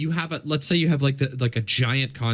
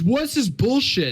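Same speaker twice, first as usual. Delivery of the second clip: full-on screaming outburst, high and raised; 10 semitones higher, 4 dB louder than usual. Retelling an angry quote tweet about an account: Hassan impression screaming. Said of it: "fucking screaming about it".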